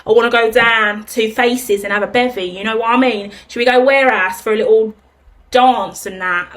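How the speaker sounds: chatty mock-Cockney Essex patter; playful Cockney night-out banter; Cockney impression. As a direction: lightly put on a matey Cockney accent. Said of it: "so many Cockney impressions".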